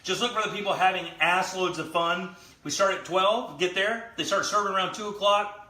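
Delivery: upbeat host sign-off; show host outro. Acted. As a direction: read it like a show promo. Show sign-off promo read.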